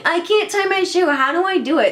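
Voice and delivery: high-pitched mocking whine at the start; mock helplessness. Rapper mocking her question as childish, mock helpless. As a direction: make fun of a helpless question.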